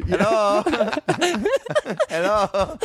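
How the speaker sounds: voice from outside the door. Pretend. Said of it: "And then you hear".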